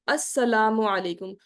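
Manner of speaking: slow unhurried salam with a full breath; slow calm salam. Shown as a demonstration. Teacher showing the salam to the angel on the right, calm and slow. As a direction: take a full breath and say السلام علیکم ورحمۃ اللہ وبرکاتہ slowly. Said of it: "پورا سانس لے کے آرام سے".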